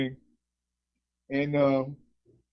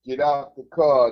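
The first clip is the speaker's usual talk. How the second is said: slow, loud barked command; rough cop order; 6 dB louder, slower than usual. Retold or imitated. Cop ordering the car empty, slow loud bark. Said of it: "It's five Asians in the car".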